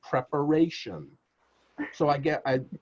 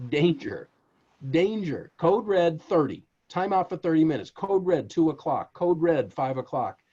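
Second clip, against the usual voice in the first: mock alarm; 3 semitones higher, 3 dB louder than usual. Acting out code red alarm.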